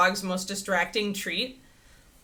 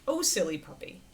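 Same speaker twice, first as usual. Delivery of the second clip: happy and confident; 3 dB quieter than usual. Shown as a demonstration. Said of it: "Keep your voice happy or at least confident".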